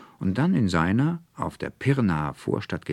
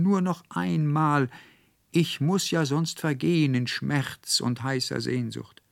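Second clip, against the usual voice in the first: much higher, yearning pleading calls into the branches; longing cries; 8 semitones higher than usual. A narrator's reading. Student Anselmus calls yearningly into the elder tree, higher and pleading. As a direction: plead with the tree as if the snakes could hear. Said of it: "rief unaufhörlich in die Zweige und Blätter hinein".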